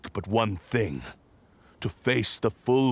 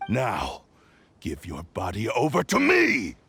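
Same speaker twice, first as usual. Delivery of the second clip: commanding shout. Acted. Sword demanding Kazuha surrender his body, commanding shout. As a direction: bellow the command to seize him.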